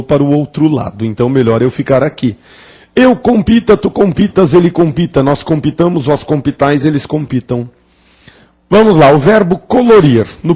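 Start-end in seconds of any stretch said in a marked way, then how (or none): 2.9-7.7 conjugation recital. Shown as a demonstration. Teacher reciting the table to the class, falling list rhythm.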